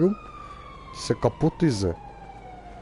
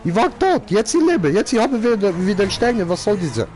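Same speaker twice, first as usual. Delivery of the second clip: indignant complaint; 7 semitones higher than usual. Real, not acted. Angry over police stars.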